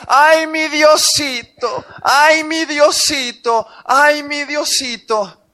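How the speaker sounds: lightly mocking a needy woman's prayer, stretched and slow; whiny mock prayer. Preacher mimics a woman pleading to God, slow whiny mock. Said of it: "decía".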